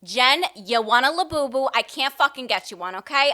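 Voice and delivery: lightly voiced loud Italian mom; a hint of an exasperated Italian mother. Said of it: "I'll be the Italian mom".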